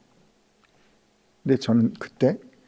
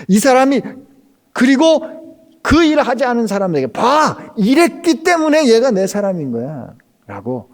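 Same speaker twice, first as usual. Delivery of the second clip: high, loud preaching build; preaching at full force; 8 semitones higher, 6 dB louder than usual. Acted. Pastor urging the congregation, preaching at full force. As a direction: drive the point home to the pews.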